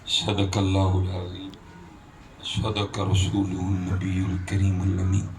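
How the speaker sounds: slow, measured liturgical recitation; Arabic religious recitation. Real, not acted. Preacher opening his sermon before the congregation, slow reverent recitation. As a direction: recite with long, drawn-out vowels. Opens with Arabic khutbah and salutations.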